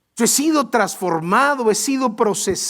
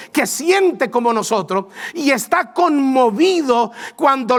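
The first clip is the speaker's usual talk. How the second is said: fervent preaching; 4 semitones higher than usual. Acted. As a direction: preach it with rising fire. Preaching builds in intensity.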